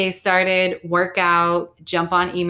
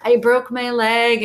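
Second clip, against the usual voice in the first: slow, mildly whiny self-pity; mock whine; 4 semitones higher, 3 dB louder, slower than usual. Mocking how people wallow, a slow mock whine. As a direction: play it up like a little pity party. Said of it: "you can be a little bitch".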